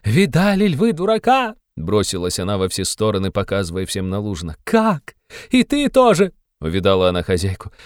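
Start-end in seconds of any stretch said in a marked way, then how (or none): 0.0-1.6 high, mocking hysterical cry; a higher, hysterical mocking call. A narrator's reading. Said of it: "истерически захохотала". 4.6-6.3 shrill outrage. A narrator's reading. Katerina turns on the landlady.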